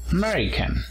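"American" as a-MER-i-can, high on MER; stress on second syllable. Shown as a demonstration. Teacher models the nationality "American", stress on second syllable. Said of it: "Acento en la segunda sílaba".

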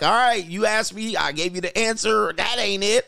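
a blunt man closing the topic; exasperated. Retold or imitated. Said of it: "I'm like".

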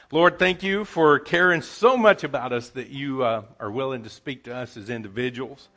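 earnest pastor's prayer, swelling on each Lord; closing prayer. Acted. Pastor praying for the church as music plays, earnest and rising. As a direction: pray over the congregation, rising to a plea.

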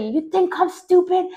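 slow, indignant mock yell; angry retort. Mother's retort in an acted quarrel.

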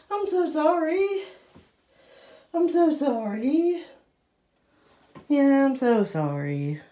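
slow, high apology through laughter; laughing apology. Real, not acted. Owner laughing while apologising to her wet dog. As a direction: giggle out your sorry.

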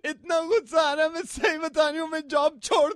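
angry outburst. Acted. Cousin venting to her sister on the phone, angry shout. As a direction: blow up in frustration.

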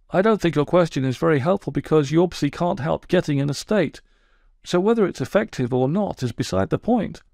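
sulky, wounded toad telling his woes; aggrieved Toad. Acted. Toad voiced by narrator.

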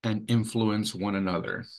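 deliberate, phrase-by-phrase reading with long pauses; measured reading, each item set apart; slow reading. Real, not acted. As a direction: read the definition slowly, pausing between phrases. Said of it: "I read it slowly".

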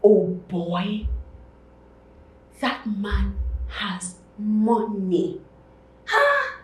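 loud, drawn-out marvelling; loud, impressed awe; amazed. Acted. Marvels at man's wealth.

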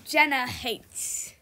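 normal talking voice

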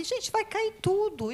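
high-pitched, drawn-out mock alarm; high retold cry of dismay; alarmed self-quote. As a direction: voice your own alarmed reaction, pitched high and stretched. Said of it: "Porque ali eu fico assim".

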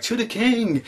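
high-pitched mock charge call; rally the riders, half-shouted; imitated battle cry. Nephew leading the cavalry downhill, imitated war cry.

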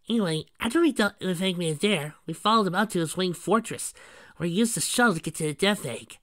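high storybook sidekick; high-voiced young hero. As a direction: recount the adventure in a high voice.

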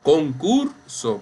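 concurso slowly said con-CUR-so; stress on middle syllable. Shown as a demonstration. Teacher pointing out the stress, concurso said con-CUR-so. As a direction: stretch CUR in concurso, then drop. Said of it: "aquí tenemos la sílaba".

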